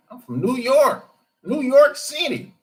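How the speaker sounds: mock a white guy bragging from New York; white New Yorker impression. Imitating white New Yorkers saying where they're from, high and proud. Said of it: "That's how they talk".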